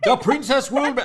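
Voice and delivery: failed Terminator voice, high and loud; badly faked action-hero accent, near laughter; hammy attempt at an Austrian cyborg; Arnold Schwarzenegger. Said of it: "in Arnold Schwarzenegger's voice".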